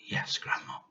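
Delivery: soft, unvoiced boy's reply; a small obedient boy answering; meek little boy. A narrator's reading.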